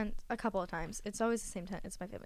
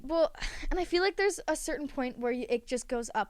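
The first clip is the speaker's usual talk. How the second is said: out of breath. Real, not acted. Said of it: "I'm getting out of breath".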